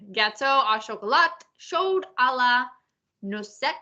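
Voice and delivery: Gâteau au chocolat chaud à la noisette read with French vowels; French pronunciation. Shown as a demonstration. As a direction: read the dessert name in careful menu French. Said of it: "I'll do the French".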